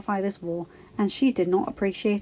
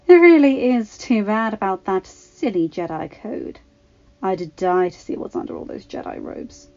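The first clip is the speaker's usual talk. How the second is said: flirty musing; 5 dB louder than usual. Acted. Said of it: "she mused to the other women".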